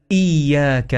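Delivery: إياك starting on a firm glottal stop; hamza pronounced clearly. Shown as a demonstration. Teacher modelling the hamza, إياك with a firm onset. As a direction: hit the opening hamza of إياك. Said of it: "حقق الهمزة".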